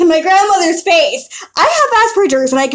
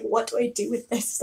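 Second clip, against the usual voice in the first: confused grandmother; 7 semitones lower, 13 dB quieter than usual. Retold or imitated. Voicing confused grandmother, low and quiet.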